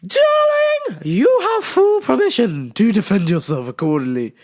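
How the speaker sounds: high, sweet mother's voice; mom's voice. Retold or imitated. Mom giving permission to fight, high and sweet. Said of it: "My mom said".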